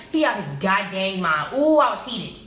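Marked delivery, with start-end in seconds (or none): none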